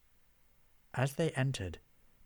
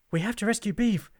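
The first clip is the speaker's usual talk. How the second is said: high, loud urgent plea; rally friends to a rescue; urgent alarm; 10 semitones higher, 7 dB louder, faster than usual. A narrator's reading. Gresser urges saving the barman, high urgent cry.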